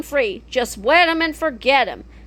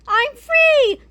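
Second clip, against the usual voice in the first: maniacal laugh; 13 semitones higher than usual. Acted. Freed villain laughs.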